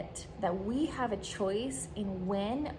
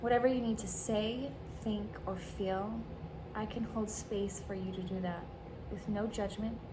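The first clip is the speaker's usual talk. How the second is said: gentle reading. Shown as a demonstration. Reads out a supportive script.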